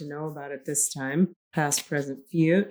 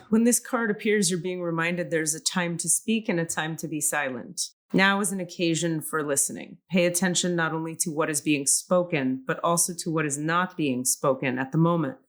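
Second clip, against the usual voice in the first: measured oracle reading voice; card reading. Shown as a demonstration. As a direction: read the card aloud, unhurried. Reads oracle card text aloud.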